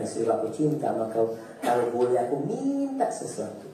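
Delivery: husband asking his wife gently to open the door; tender request. Retold or imitated.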